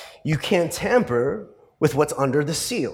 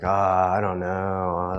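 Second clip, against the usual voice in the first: put-on lower, slow bashful old lady hesitation; shy old lady; 5 semitones lower, slower than usual. Little old lady shyly refusing to perform, lower and slow. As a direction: hang back like a timid old lady. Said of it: "And she's like".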